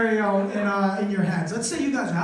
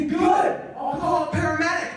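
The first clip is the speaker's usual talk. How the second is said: high-pitched defiant comeback; acted indignant retort; 5 semitones higher than usual. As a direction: fire back triumphantly, pitched up.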